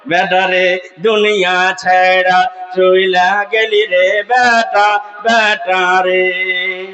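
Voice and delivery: mock wailing lament. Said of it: "জি, এভাবে কান্না করে না".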